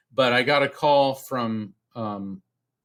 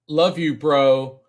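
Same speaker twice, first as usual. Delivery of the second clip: slow, louder, each word set apart; spirit box voice; 5 dB louder, slower than usual. Retold or imitated. Late friend speaking through spirit box, imitated message. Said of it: "out of the spirit box I hear".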